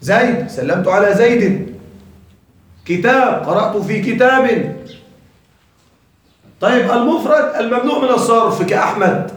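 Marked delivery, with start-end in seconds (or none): 0.5-1.8 "زيد" ending as "Zaydin"; kasra with tanween. Shown as a demonstration. Teacher giving a genitive example, "زيد" said with "-in" ending. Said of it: "المجرور بالكسرة هو المفرد". 3.4-4.8 "كتاب" ending as "kitaabin"; kasra with tanween. Shown as a demonstration. Teacher giving a genitive example, "كتاب" said with "-in" ending. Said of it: "المجرور بالكسرة هو المفرد".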